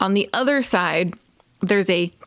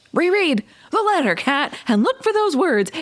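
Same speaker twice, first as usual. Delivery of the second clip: mock yelling, high and pitched-up; 8 semitones higher than usual. Retelling watching kat miss an obvious clue on television: retelling screaming at the tv. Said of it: "I am screaming at the television".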